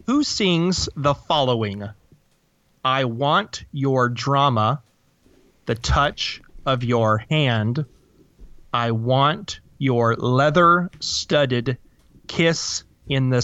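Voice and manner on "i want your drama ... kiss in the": slow, flat deadpan reading. Shown as a demonstration. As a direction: read the lyrics deadpan, no feeling. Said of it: "flat and deadpan".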